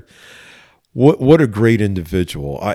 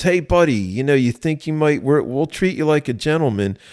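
lightly voiced sergeant, higher and coaxing; Gary Russ; 5 semitones higher than usual. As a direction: imitate a sergeant gently coaxing a suspect. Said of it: "this is how he talked".

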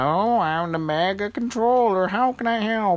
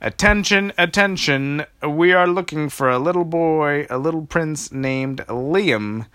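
high, loud public announcement; megaphone announcement; 6 semitones higher, 4 dB louder than usual. Acted. Old lady calling for Liam over the megaphone, loud announcement. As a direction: call it out over the whole park. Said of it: "she had a megaphone".

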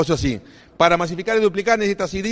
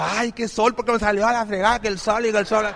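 whiny crybaby. Retold or imitated. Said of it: "o como los bebés lloran".

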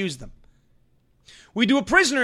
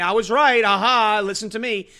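mock gloating; 3 dB louder than usual. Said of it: "I'm not excited about saying".

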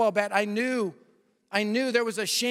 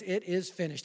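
softer, hushed retelling of the last words; quiet; 2 semitones lower, 6 dB quieter than usual. Acted. Preacher quietly repeating the last words during the altar call, hushed. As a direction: say it gently, almost to yourself.

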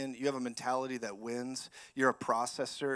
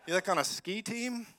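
sarcastic retort; 7 semitones higher than usual. Retold or imitated. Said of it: "I just looked at him and said".

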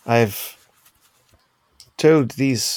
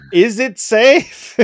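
nervous question; 12 semitones higher, 7 dB louder, much slower than usual. Retold or imitated. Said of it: "it's like".

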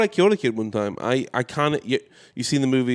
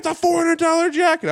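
retold outburst; 3 dB louder than usual. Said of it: "I was losing my mind".

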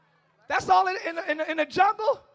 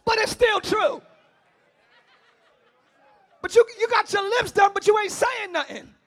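loud, high preaching shout; 10 semitones higher, 12 dB louder than usual. Real, not acted. Preacher shouting at a woman in the congregation. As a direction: let it rip at them. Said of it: "I don't mean to say it like that".

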